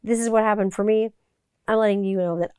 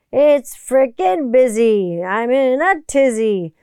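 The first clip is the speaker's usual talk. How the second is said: mock frazzled; 4 semitones higher, 6 dB louder, slower than usual. Real, not acted. Hyped holiday rush.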